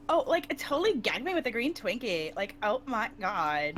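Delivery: put-on ditzy gushing Valley Girl. Shown as a demonstration. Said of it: "that's Valley Girl".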